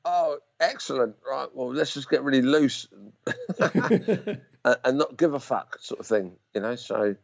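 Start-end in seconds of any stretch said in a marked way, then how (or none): 0.0-5.8 slow, amused, laughing through it; laughing loosely. Retold or imitated. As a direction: chuckle it out like you don't care. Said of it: "I was like".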